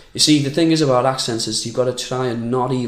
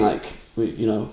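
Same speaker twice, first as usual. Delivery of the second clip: usual speaking voice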